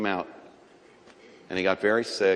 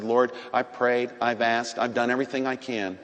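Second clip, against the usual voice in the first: quoted prayer; 6 dB quieter than usual. Retold or imitated. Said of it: "I said".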